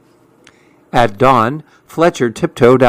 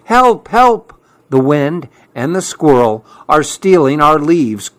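crying for help; 3 semitones higher than usual. Acted. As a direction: call out for help like a frightened little animal. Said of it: "cried Fletcher".

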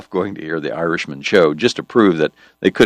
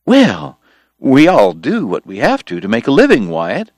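smooth persuasion; 6 semitones higher, 4 dB louder than usual. Acted. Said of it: "George pointed out smoothly".

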